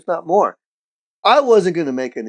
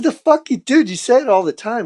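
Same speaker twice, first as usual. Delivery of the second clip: mock indignation; 7 semitones higher than usual. Retold challenge of his denial.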